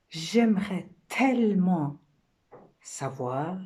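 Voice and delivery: déclamation avec de longues pauses; rôle de femme. Acted. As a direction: appuyer avec désir sur chaque « tellement ». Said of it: "c'est la femme qui parle". (femme rêveuse, poème joué)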